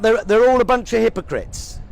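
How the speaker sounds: mock critic. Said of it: "shall I tell you what you sound like when you say".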